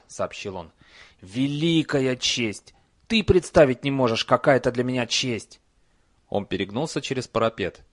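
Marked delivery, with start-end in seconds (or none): 1.2-5.6 honored. Acted. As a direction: gush with pride. Troll honored.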